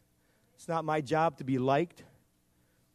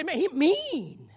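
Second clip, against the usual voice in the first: mock grumble; 12 semitones higher, 4 dB louder, much slower than usual. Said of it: "You might say".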